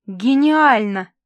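slow, loud breathy exclamation; breathed out. Acted. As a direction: breathe the word out. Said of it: "выдохнула Валечка".

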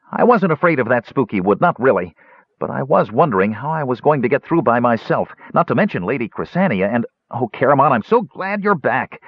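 high, eager, quick kender chatter. Acted. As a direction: bubble over with relief like a small excited kender.

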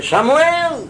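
put-on a voice from beyond calling the sleeping boy; divine call. A narrator's reading. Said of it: "oye una voz que dice". (la voz de Dios llamando, mucho más aguda)

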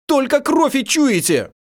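high, loud, slow reproach; furious shout. Acted. Prince storms at the captives, high and loud. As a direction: hurl it at them in fury.

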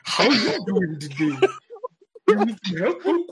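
lightly voiced courteous helper talking to Kami; imitating Mr. Popo. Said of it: "he talked like this".

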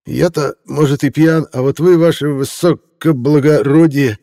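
put-on slow, high, slightly slurring drunk reporter; tongue a bit heavy with champagne, slowly; drawn-out tipsy reporter; slightly slurred. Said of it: "слегка заплетающимся языком".

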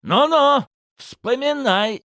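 high, drawn-out goading voice; pressing interrogator. Acted. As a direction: needle him to remember.

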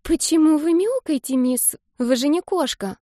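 put-on an eight-year-old wondering aloud; curious little girl. A narrator's reading.

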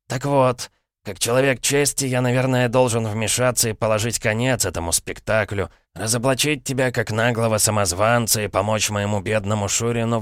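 lightly voiced sly old uncle; a hint of a smug, knowing uncle. Uncle teasing nephew Dick, slyly amused. Paradine moralizing.

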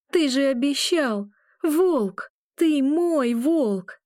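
high, loud desperate cry; voice breaking shout. A narrator's reading. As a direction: scream until the voice cracks. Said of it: "Я срываю голос".

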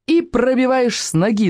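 high-pitched, excited martial-arts cry at moderate volume; restrained storyteller's version of a yell; mild narrated yell. A narrator's reading. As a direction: call out the kick, pitch jumping up. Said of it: "завопил Елашевич".

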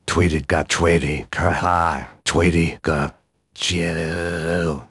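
loud, slow squeaky creature cry; Pokemon voice. Shown as a demonstration. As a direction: call your name like a tiny Pokemon. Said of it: "I can kind of do some Pokemon voices".

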